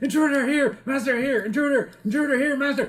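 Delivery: very high, shrill, loud, alarmed shouting. A storyteller voices someone behind the door, shouting an alarm. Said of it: "sounds of somebody shouting".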